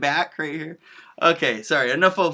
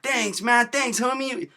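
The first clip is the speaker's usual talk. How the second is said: higher-pitched, appreciative thanks; retold friendly gratitude, voice lifted; grateful thanks; 8 semitones higher, slower than usual. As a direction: thank a helpful stranger, pitched up. Grateful thanks to trash man retold.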